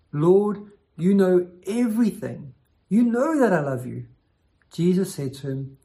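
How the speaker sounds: measured, deliberate Bible reading; scripture reading. Acted. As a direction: read the passage aloud to the congregation. Reads Bible passage aloud.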